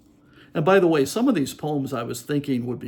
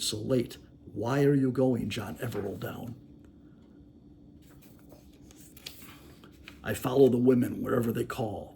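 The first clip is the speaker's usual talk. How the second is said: poem recital. Acted. Host reading a creepy ballad to listeners, sing-song recital. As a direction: tell it like a dark nursery rhyme.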